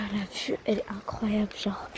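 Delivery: hushed awe at the view; whispering. Real, not acted. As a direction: breathe it out softly. Chuchote devant la vue. (chuchoté)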